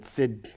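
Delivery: sid set apart as a single syllable. Shown as a demonstration. Teacher breaking down a Hebrew name, sid said separately. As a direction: sound out sid on its own.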